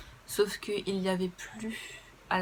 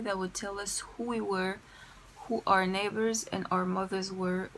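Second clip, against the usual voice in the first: deliberate English, French accent throughout. Real, not acted. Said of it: "mon accent anglais".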